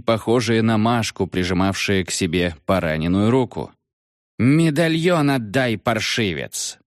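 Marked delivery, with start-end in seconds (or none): 4.4-6.8 demanding creature. Acted.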